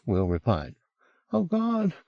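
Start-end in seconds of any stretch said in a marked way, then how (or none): 1.3-1.9 high, breathless panic building in volume; mounting agitation. A narrator's reading. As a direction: overwrought Englishman working himself up. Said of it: "his breathing getting faster".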